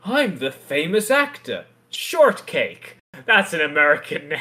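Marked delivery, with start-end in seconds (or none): 0.0-3.0 lightly voiced self-important actor, pitch lifted; a hint of a haughty star announcing himself; arrogant actor. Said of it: "this is a very arrogant actor who says".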